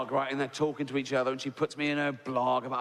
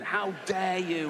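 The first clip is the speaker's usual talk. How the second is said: slow, higher indignant scolding; mock outrage; 5 semitones higher, slower than usual. Comic imitating the woman tweeting at him, outraged. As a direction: imitate an offended critic, stretching the words.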